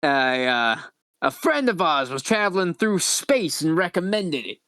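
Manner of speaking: chatty, lightly raspy alien; Lady Vera. Acted. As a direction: make raspy small talk about a favorite song. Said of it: "really raspy voice".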